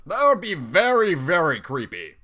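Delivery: loud, high hammed-up reading; mock creepy line. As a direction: ham up a nervous pony's line. Reading character's nervous line.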